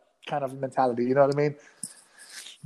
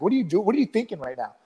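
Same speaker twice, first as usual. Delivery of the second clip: quick, higher imitation of a telling-off; mock aggressive questioning; 4 semitones higher, faster than usual. Sparring partner questioning his performance, imitated quick aggressive challenge. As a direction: rattle it off like an irritated sparring partner. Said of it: "real, like, aggressive".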